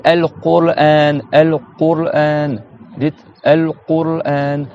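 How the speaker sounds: slow, stretched al-Qur'an with back q; al-Qur'an syllable by syllable, q deep; deep qaf in al-Qur'an. Shown as a demonstration. Teacher has pupils repeat al-Qur'an, demonstrating qaf slowly. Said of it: "Et pareil".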